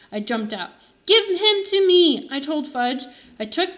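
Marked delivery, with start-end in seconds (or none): 1.1-2.3 loud, high, slow demand; angry demand. A narrator's reading. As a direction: demand it back angrily. Boy demands his turtle.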